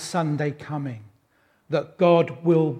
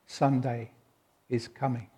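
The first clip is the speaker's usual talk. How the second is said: hushed promise; 4 semitones lower, 9 dB quieter than usual. Acted. Jesus promising grieving believers, hushed and low. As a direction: let it fall quiet, like a secret of hope.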